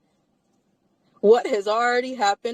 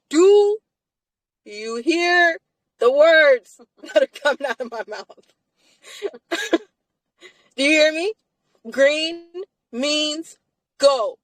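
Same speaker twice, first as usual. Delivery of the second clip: every word punched out separately, high, with pauses; exasperated emphasis; 5 semitones higher, slower than usual. Real, not acted. Woman spelling it out to whoever isn't listening, exasperated emphasis. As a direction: hammer it home word by word, raised pitch.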